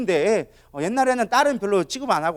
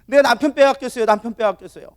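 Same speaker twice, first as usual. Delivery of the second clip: 억울한 기도 흉내; 3 semitones higher than usual. Retold or imitated. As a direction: act out a wronged wife's complaint. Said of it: "맨날 억울한 거야". (억울하게 하소연하듯 기도)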